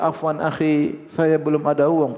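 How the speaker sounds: slow, measured apology; apologetic excuse. Acted. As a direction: ask slowly to be excused. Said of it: "kita minta uzur".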